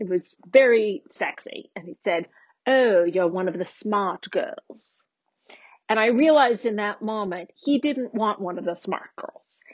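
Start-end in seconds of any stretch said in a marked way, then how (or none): 2.7-5.0 put-on English accent. Retelling what a date said on hearing about a PhD program: imitating an English accent. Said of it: "he had this accent. He was English".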